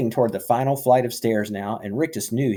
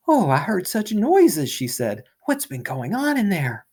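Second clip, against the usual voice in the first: worried neighbour; 9 semitones higher than usual. Acted. Missus Griffin's voiced worry.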